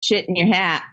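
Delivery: flat, even deadpan delivery; monotone voice. Pretend. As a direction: say it dead flat, no lift. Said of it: "monotone voice".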